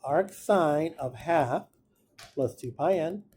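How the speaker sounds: very slow, measured dictation; slow right down, word by word; unhurried teacher spelling out each term. Shown as a demonstration. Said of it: "I'm gonna slow down".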